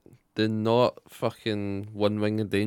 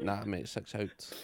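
mock insistent; 3 semitones lower, 13 dB quieter, slower than usual. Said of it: "It's like".

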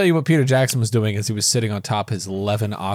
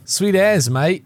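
a light Kiwi accent, higher pitched; New Zealand accent; 6 semitones higher, much slower than usual. Shown as a demonstration. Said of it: "that's how Kiwis sound".

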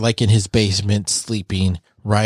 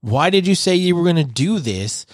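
high, strained, upset voice; upset pleading; 8 semitones higher than usual. Acted. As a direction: plead with rising distress. Zeke's upset outburst acted.

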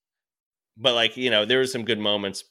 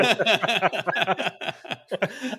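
high, gleeful burst of laughter; high delighted laugh; 10 semitones higher than usual. Real, not acted. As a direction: laugh out at the absurdity. Laughs after retort.

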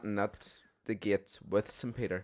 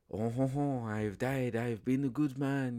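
hammed-up French accent, pitched up a little; botched French accent; 3 semitones higher than usual. Thierry Henry pleads at the pearly gates, hammed French accent. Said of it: "German accent there".

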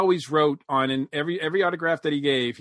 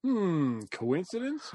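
hmm, then a higher, softer suspicious coincidence; playful mock suspicion, softer; mock conspiracy; 5 semitones higher, 4 dB quieter, slower than usual. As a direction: tease a conspiracy theory, quieter. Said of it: "do not start this Mister Conspiracy Theories".

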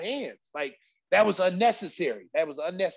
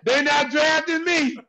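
high, loud, drawn-out comic despair; hammed-up wail of doom; panicked wail; 7 semitones higher, 8 dB louder, much slower than usual. Dismay on learning who he fought.

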